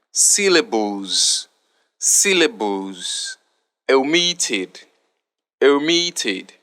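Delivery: reading out a word list for spelling contestants, clearly; spelling bee word reading. Shown as a demonstration. Teacher reads the competition word list to pupils, clear and deliberate. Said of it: "give it a pronunciation for the words".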